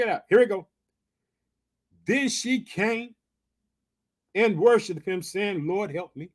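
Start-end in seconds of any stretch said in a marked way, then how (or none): 5.7-6.3 low, soft plea for help; subdued plea. Acted. Woman worshiping Jesus asks for help, subdued plea. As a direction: say it low and softly, as a humble request.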